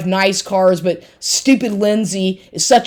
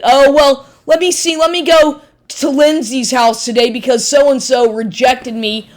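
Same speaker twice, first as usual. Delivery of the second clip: mocking imitation; 5 semitones higher than usual. Mocking ex's voice in rant.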